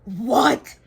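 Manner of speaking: loud rising yell of shock. Real, not acted. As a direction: yell it in disbelief. Shock at the plot.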